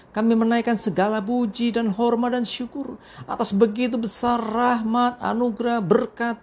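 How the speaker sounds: earnest, evenly pitched public prayer. Real, not acted. Pastor praying to God before the morning reflection, earnest prayer. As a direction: lead the congregation in prayer. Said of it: "mengajak kita semua untuk berdoa".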